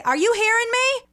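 put-on loud high call in a thick Maine accent; mom's Maine accent. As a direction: shout to the other room like mom, Maine accent. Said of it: "my mom has the weirdest accent".

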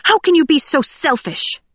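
high, loud outraged accusation; angry snap. A narrator's reading. Audrey angrily accusing Cinder of selfishness. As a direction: hurl the question at her. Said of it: "Audrey snapped".

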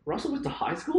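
mock surprise. Real, not acted.

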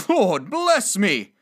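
high, loud, very slow exclamation; stunned gentleman, words drawn right out; breathtaken astonishment. Acted. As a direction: cry out as if the breath is taken away. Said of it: "as if his breath were taken away".

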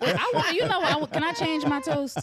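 laughing while asking, pitch up high; can barely get the words out for laughing. Real, not acted. Laughing at sad story.

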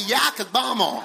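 hammed-up American accent, broad "ah" in "Yakagbomo". Shown as a demonstration. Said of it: "American accent".

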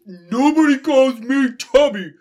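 high, loud hammed-up offence; indignant outburst. Starfish objecting to the announcer, hammed-up indignant shout. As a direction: bellow it in comic outrage.

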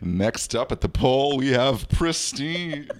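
slow announcer voice; strip club announcer. Acted. Host announcing stripper name slowly like emcee. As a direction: announce the next dancer. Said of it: "the pristine is my stripper name".

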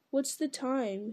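slow, drowsy mumble; sleepily. Acted. Sam pretending to wake up, slow and sleepy. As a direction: fake a just-woken voice. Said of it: "he said sleepily".

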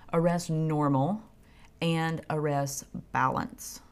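arrest normal and arrest balance said slow and deliberate; slow, weighted quotation; quoted slowly. Shown as a demonstration. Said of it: "in quotations".

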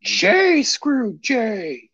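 drawn-out, high wrestling-promoter voice; Vince McMahon. Acted. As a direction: stretch each word out, high-pitched, in a hammed-up impression. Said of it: "in the Vince McMahon voice".

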